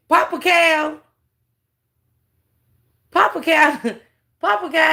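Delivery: high, loud teasing call; sing-song the nickname at him; mocking call-out. Real, not acted. Streamer teasing the speaker by nickname, loud high call.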